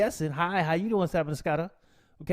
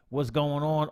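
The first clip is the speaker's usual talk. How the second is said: usual speaking voice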